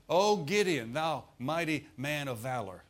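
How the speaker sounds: loud, lifted call on "O Gideon"; proclaiming angel. Acted. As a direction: angel hailing Gideon, declaring with force.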